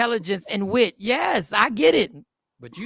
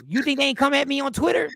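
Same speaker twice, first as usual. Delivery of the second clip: pitched up thin and squeaky; 6 semitones higher than usual. Shown as a demonstration. Host mocking his own old voice, squeaky and high. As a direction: play the squeaky boy he says he was. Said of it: "Listen to the way I sound".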